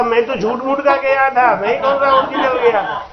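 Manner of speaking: the guest gleefully admits he only pretended to leave; a touch of laughter, lightly voiced guest; laughing guest. Guest returns, joking punchline.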